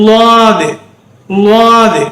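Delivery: லாது as Arabic Daad, tongue to one side; long, heavy 'Lwaadh' for லாது. Shown as a demonstration. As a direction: press the tongue sideways on the first sound of லாது. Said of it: "நாக்க சோத்துக்கை பக்கம் வச்சு".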